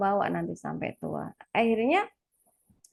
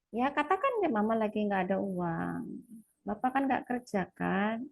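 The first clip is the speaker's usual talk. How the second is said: gentle explanation; 5 dB quieter than usual. Retold or imitated.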